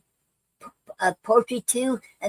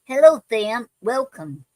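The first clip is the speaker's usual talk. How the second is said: cheerful greeting; 2 semitones higher, 4 dB louder than usual. Shown as a demonstration. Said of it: "I would love to say".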